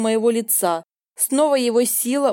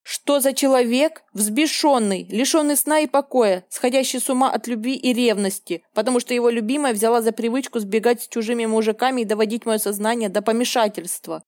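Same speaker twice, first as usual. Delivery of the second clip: ordinary delivery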